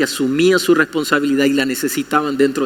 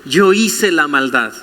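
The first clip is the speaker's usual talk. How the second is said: slow confession; slower than usual. Shown as a demonstration. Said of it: "Que sean capaces de decir".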